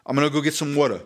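demonstrated New York accent, dropped R; lightly done New York accent. Shown as a demonstration. Showing co-host how New Yorkers talk, New York accent. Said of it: "That would be New York".

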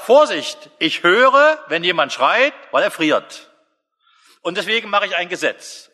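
God proclaiming. Acted. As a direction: call out a divine warning. Preacher voicing God declaring.

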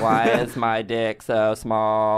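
slow, dopey robot voice; dumb robot voice. Pretend. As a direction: whine it like a clueless robot. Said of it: "It's the robot".

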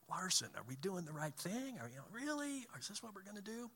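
high, soft, disbelieving questions; doubtful questioning. Retold or imitated. Partners asking Larson about the right thing, imitated high-pitched doubt. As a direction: climb high and soft as if unsure.

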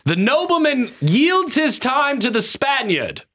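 hammed-up old-world assembly speech; mock pompous nobleman. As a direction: yield the floor like a grand old parliamentarian. Acting formal assembly speaker.

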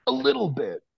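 high squeaky aside; jokey high-pitched admission; mock correction. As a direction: pop up high then deny it. Self-mocking correction.

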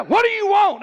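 sharp, loud, high retort to a stranger who grabbed him; rough challenge. Retold or imitated. Preacher retelling confronting a startled man, roughly. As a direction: snap it out like you were startled. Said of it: "I was rough with him".

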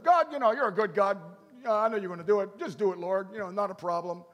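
casual prayer. Retold or imitated. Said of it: "instead of".

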